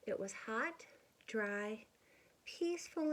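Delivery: gentle storybook narration for little ones; picture-book reading voice; reading to children. A narrator's reading. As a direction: read it like story time.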